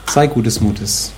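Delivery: soft, slow reassurance; calm him down softly; gentle encouragement. Acted. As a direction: disciples comforting the blind man, soft and slow. Disciples comforting the blind man.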